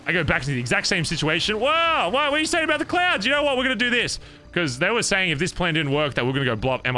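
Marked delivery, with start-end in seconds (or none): 1.6-4.2 mock clown threat. Clowns threatening him, voiced.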